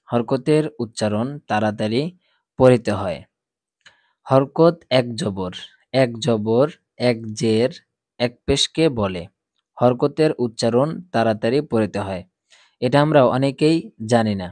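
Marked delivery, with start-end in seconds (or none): 0.1-3.2 recited rule. Shown as a demonstration. 4.3-12.2 slow teacher's chant of the rule; slow recited rule. Shown as a demonstration.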